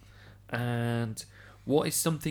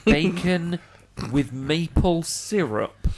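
incredulous; 4 semitones higher, 4 dB louder, slower than usual. Real, not acted. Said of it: "Are you serious?".

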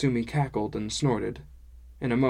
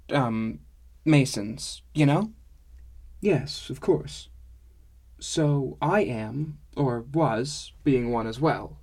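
lightly lilting dwarf-woman character voice; dwarf woman telling her own past; reminiscing dwarf woman; 2 semitones higher, 3 dB louder than usual. Acted. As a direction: recount family history in an accented storytelling lilt.

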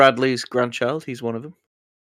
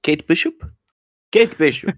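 mock Russian accent; 3 semitones higher than usual. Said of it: "in that Russian accent".

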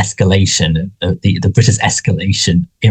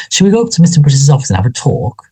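knowing manager voice; 5 semitones higher, faster than usual. Retold or imitated. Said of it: "just the way she says it".

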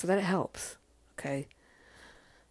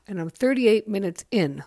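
talking through a yawn; words stretched by a tired yawn; 4 semitones higher, 6 dB louder than usual. Real, not acted. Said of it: "I'm sorry for yawning".

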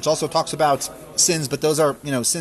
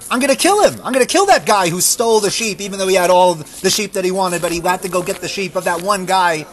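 louder, higher furious king swearing revenge; David's rage; 4 semitones higher, 5 dB louder than usual. Acted. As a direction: snap out the threat in fury.

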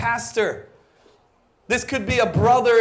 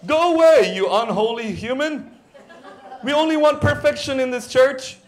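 mock dismissal; 3 semitones higher than usual. Preacher mocks a church that rejects strugglers, dismissive. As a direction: wave someone off in mock disgust.

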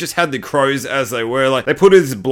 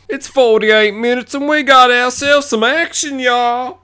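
high, louder put-on hype voice; hyped announcer; 10 semitones higher, 3 dB louder, slower than usual. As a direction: announce the action like a showman. Hyped announcement of movie action.

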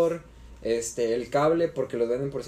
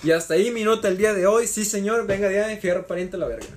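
loud, higher norteño-style sign-off; northern Mexican accent; 5 semitones higher, 3 dB louder than usual. Pretend. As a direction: close it out like a northern rancher. Sign-off catchphrase, raised voice.

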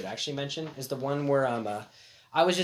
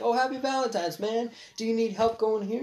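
retold friendly greeting; 7 semitones higher than usual. Retells his friendly offer to stranger.

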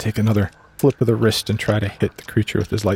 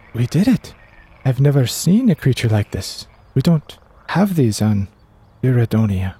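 proud; 3 semitones higher than usual. Acted. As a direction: bounce in the voice, proud of the kill. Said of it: "He's proud".

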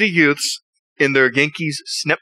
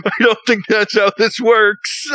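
mock deadpan disbelief; 7 semitones higher, slower than usual. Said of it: "And I'm like".

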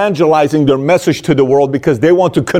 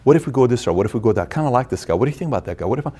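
softer, lower self-questioning; inner monologue; 3 semitones lower, 6 dB quieter, faster than usual. Retold or imitated. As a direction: murmur it to yourself. Voicing founder's inner talk.

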